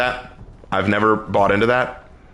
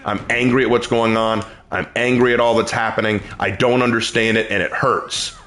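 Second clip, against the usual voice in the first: sample hurt prayer; 3 semitones lower than usual. Pretend. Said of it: "Tell God".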